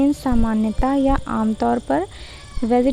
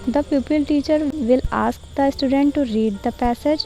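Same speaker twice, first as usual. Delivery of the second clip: slow dictation reading; much slower than usual. Acted. Reads lesson-plan text slowly.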